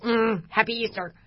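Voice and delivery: mock-grudging greeting through clenched teeth. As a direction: force out the greeting, imitating held-back annoyance. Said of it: "like, through clenched teeth".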